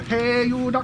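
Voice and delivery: high, loud mock Asian accent. Coworker doing his duck hunter bit, high mock Asian accent.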